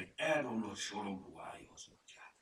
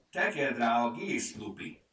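loud, raised-pitch order; commanding; 4 semitones higher, 8 dB louder than usual. A narrator's reading. Furmány directs Lupi with the bandage, commanding. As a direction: take charge and direct the helper firmly. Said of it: "vezényelt a furmány".

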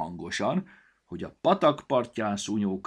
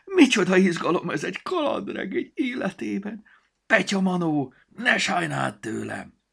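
high, loud squeaky creature voice; thrilled little storybook; 13 semitones higher, 9 dB louder than usual. A narrator's reading. Storybook begging Petya for excitement, high and thrilled. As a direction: gush about adventure, tiny and delighted. Book character voice.

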